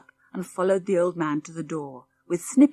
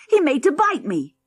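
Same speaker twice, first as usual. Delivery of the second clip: put-on high, loud, panicky kid; alarmed boy; 8 semitones higher, 7 dB louder than usual. A narrator's reading. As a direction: yelp it to your dad. Boy complains to father.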